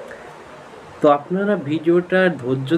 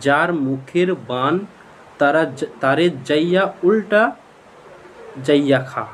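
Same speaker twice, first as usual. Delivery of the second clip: staccato; slower than usual. Shown as a demonstration. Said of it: "আমি কেটে কেটে বলছি".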